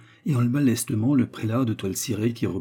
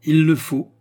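high, loud, doleful echo; lugubrious; 7 semitones higher, 9 dB louder than usual. A narrator's reading. James echoes his friend's resignation, lugubriously. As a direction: proclaim it with theatrical gloom. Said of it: "répéta lugubrement James".

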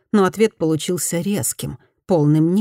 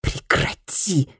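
slow unvoiced hiss, softer; 4 dB quieter, much slower than usual. Fumi hisses at the bowing woman, slow whispered hiss. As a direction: hiss it through the teeth, slowly. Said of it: "зашипела она".

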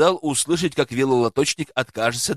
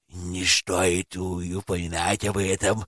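bashful mumble; 7 semitones lower, 4 dB quieter than usual. A narrator's reading. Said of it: "покраснел он".

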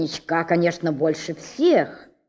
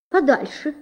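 higher shooing; 6 semitones higher than usual. A narrator's reading. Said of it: "сказала подвязка".

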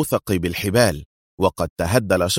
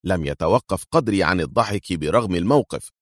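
usual speaking voice

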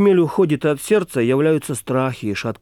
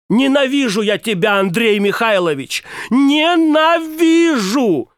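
shouted hatred; 8 semitones higher than usual. A narrator's reading. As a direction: fling the hatred at him, the last word drawn out into a cry. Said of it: "и крикнула".

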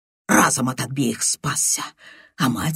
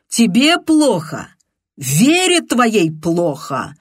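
angry shout; 6 semitones higher, 4 dB louder, slower than usual. Acted. Continues heated shouting.

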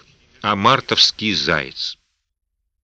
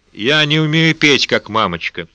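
put-on creepy child; 3 semitones higher than usual. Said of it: "своим жутким детским голоском".

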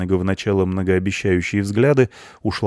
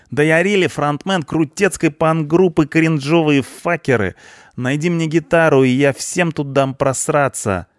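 high, loud cheeky punk voice; 9 semitones higher, 4 dB louder than usual. A narrator's reading. Punk mouthing off at the cleaner, cocky. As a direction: fire off slang in a high, excited voice.

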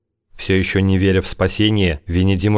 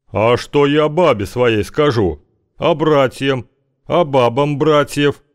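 indignant; 7 semitones higher, slower than usual. A narrator's reading. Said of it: "продолжал возмущаться здоровяк".

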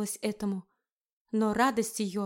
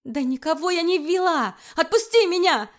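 higher, louder desperate protest; outraged cry; 6 semitones higher, 5 dB louder than usual. Acted. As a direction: scream it as you try to break free. Erika fights his grip.

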